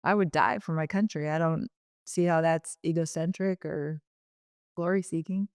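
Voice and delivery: calm reply. Retold or imitated. Chris answering her teasing accusation, calm and steady. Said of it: "said really calmly".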